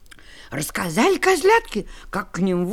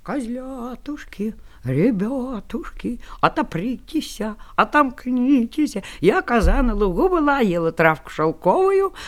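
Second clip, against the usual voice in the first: wolf faking sweetness. Acted. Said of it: "да тоненьким голосом и запел".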